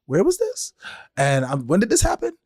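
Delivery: high, startled disbelief; shocked question. Retold or imitated. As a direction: play being accused out of nowhere. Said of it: "you come and you go".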